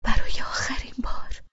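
like an echo ringing in her skull; hushed, unvoiced repetition; haunted whisper. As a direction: breathe «برای آخرین بار» high and airy, «برای» leaned on, falling away. The words echo in her head.

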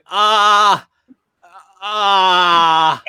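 high loud screams; mock screaming. Friend heard screaming in panic, high loud cries. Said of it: "I just hear him going".

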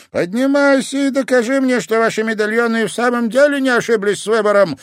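high, loud barked challenge; commanding sensei. Acted. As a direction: order him up on his feet. Sensei commanding his pupil.

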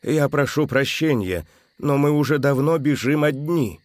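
lightly voiced exhausted old man; усталый старик; tired old man. A narrator's reading. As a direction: sound worn out and old. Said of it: "измученный голос пожилого".

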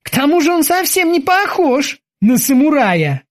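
high-pitched careful boatswain voice; cautious. A narrator's reading. Kiki adds a doubt for the captain, cautious. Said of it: "осторожно заметил Кики".

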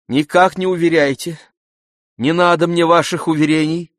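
живо, горячо; lively. Acted. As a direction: cut him off with spirited protest. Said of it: "с живостью сказала она".

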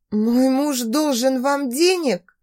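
slow, choked wheeze; wheezing. Acted. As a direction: rasp it out while choked. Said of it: "просипела я".

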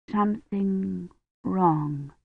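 barely breathed, dragging each word; faint slow repeat. Acted. Feverish Badri to Dunworthy, a faint slow murmur.

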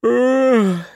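a drawn-out high yawning sigh; long yawn. Acted. The girl yawns at the end of the session, a drawn-out sigh. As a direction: let a tired yawn escape into the word. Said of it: "протяжно зевнула".

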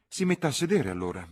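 high, theatrical spinster, teasing; Miss Lavish shooing Lucy. Acted. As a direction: shoo the girl away, archly. (zitella teatrale che scaccia la ragazza)

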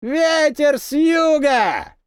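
very slow, high shout close by. A narrator's reading. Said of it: "ещё громче и ближе".

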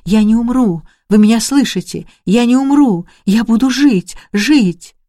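cling to life with every shout; dying girl crying out against death; screaming. Retold or imitated. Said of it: "кричала".

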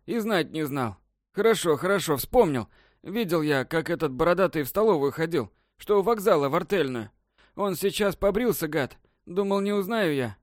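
high tearful babbling; crying old man. A narrator's reading. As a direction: blurt it out, weeping. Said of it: "заплакал". (плачущий старик, высоким голосом)

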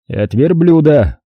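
slow, rude cut-off; грубо отрезал. Acted. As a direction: snap it back slowly and rudely. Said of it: "грубо отрезал Фокин". (грубо, медленно, отрезая)

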